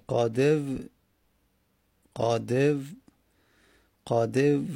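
"قادو" tried repeatedly, stopping on a closing v; unpronounceable form attempted. Shown as a demonstration. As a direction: attempt "قادو" as qadev, halting on the v. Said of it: "نمیشه تلفظ داد که".

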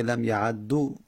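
لم یعدو read "lam ya'addu"; damma ending. Shown as a demonstration. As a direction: end لم یعدو on doubled d and u.

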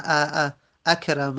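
ا stretched out slowly, then اکرم; sounding out the hamza. Shown as a demonstration. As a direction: isolate the ا before اکرم. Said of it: "ببینید ا". (همزهٔ ا را جدا و کشیده بگو)

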